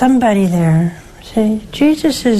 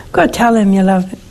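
ordinary talk, nothing marked

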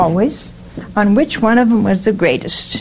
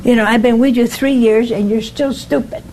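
mock exasperated scolding. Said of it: "I would have said".

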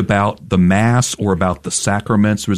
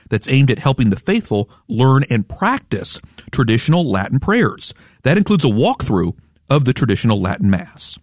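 lively, measured radio presenter read; radio host introduction. Acted. Host welcoming listeners back to Catholic Lunch Break, radio introduction. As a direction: introduce the programme with deliberate, lilting emphasis.

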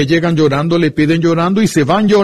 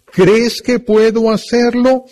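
higher, slow gentle question; Jesus asking; 7 semitones higher than usual. Acted. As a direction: ask it slowly, inviting faith. Jesús pregunta. (pregunta de Jesús, alta y lenta)

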